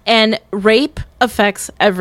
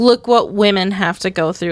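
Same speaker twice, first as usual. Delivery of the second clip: ordinary talk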